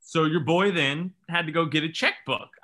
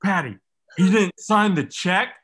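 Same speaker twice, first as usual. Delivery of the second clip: incredulous; 3 semitones higher, 6 dB louder, slower than usual. Retold or imitated. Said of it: "He goes".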